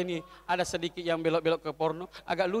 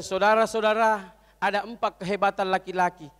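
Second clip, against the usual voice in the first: speech maker; 4 dB louder than usual. Acted. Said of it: "naik pidato".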